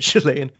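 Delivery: "Chilean" said as shuh-LAY-an; soft SH pronunciation. Shown as a demonstration. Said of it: "but I say it".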